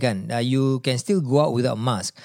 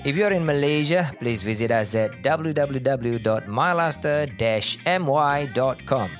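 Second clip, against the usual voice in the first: ad read. Acted. Sponsor ad read.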